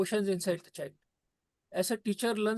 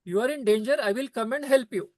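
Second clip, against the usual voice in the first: put-on eager child's reply, louder and a touch higher; the child answering; 3 semitones higher, 5 dB louder than usual. The child's compassion answers the ocean, eager and louder. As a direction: promise help like a brave little child. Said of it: "the compassion inside the child says".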